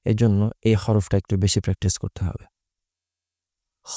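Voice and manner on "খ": খ with its vowel held level; drawn-out খ. Shown as a demonstration. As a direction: stretch খ briefly on one note. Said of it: "এক আলিফ পরিমাণ টান". (খ এক আলিফ টেনে)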